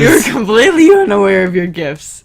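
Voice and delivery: high growling voice. Acted. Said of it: "The person spoke in a very high, growling type voice".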